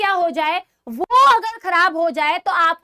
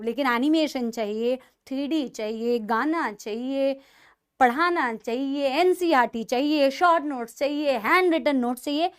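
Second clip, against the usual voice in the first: mock complaint; 3 semitones lower than usual. Teacher listing students' demands back at them, mock complaint. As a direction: reel off each demand as a teasing grievance.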